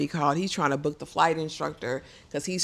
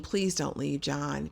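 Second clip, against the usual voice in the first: soft begging; 5 dB quieter, slower than usual. Retold or imitated. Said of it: "so she's begging".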